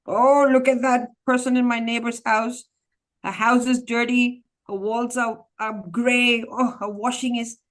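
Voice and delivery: a hint of a sour old neighbour finding fault; grumbling old woman. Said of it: "this old woman who looks down and looks at everything, like, very begrudgingly".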